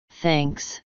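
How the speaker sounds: soft, quiet, a touch tearful; hushed thanks through light tears; mild sniffly thanks. A narrator's reading. Twilight, sniffling, thanks Trixie with understated quiet tearfulness. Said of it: "Twilight sniffed".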